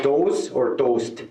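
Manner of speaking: slow baffled toast question; slow puzzled question. Retold or imitated. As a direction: slowly ask "Toast or toast?". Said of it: "And I said".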